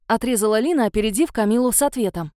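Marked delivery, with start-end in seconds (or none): none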